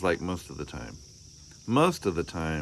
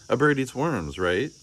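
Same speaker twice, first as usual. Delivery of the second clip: put-on child's voice; 5 semitones higher than usual. Child Arthur voiced in story.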